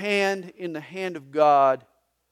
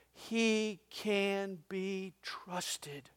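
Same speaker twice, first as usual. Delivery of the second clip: slow, breathy whisper, much softer; 3 semitones higher, 8 dB quieter, much slower than usual. Real, not acted. Preacher whispering God's trustworthiness to the church. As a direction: let it fall to a slow whisper.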